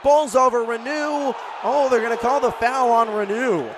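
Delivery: surprised play-by-play outburst; excited call. Real, not acted. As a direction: react fast to the foul. Collision, foul called.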